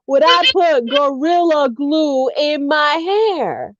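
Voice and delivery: slow, drawn-out disbelief, word by word; retold incredulity. Telling how she answered her friend's hair advice, slow incredulity. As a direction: stretch it out like an absurd question.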